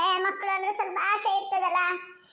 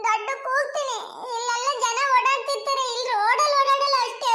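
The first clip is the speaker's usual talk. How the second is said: tearful threat; 2 semitones higher than usual. Acted. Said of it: "ಈಗ ಅಳ್ಬೇಡ ಮಾರೈತಿ ನೀನು".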